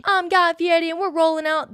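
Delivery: high, loud hammed-up TV host catchphrase; Guy Fieri impression. Quoting the TV chef's catchphrase, hammed-up and loud. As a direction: belt it like the Flavortown host. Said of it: "That's how he says it".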